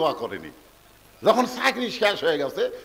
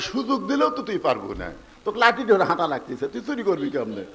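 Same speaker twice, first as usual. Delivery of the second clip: ordinary talk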